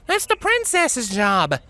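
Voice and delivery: high pony voice, slow and firm; slow objection. A narrator's reading. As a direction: lay down the rule slowly.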